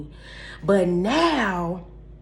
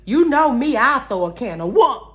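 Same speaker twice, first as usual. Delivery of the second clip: talking to God; 4 semitones higher, 6 dB louder than usual. Retold or imitated. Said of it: "go right on over to God like".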